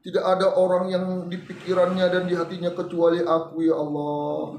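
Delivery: low-pitched supplication; model prayer. Shown as a demonstration. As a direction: recite a wife's plea to Allah. (doa istri dengan suara rendah)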